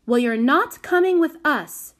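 high, loud, bossy refusal; firm declaration. A narrator's reading. Prudence refusing to take the child, declaring. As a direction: lay it down loudly and high. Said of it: "declared Prudence".

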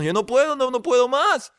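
high-pitched, mock-desperate plea; exasperated. Joke's insomniac complains to his friend, mock-desperate. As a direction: play a sleepless man at breaking point. Joke character at breaking point, acted.

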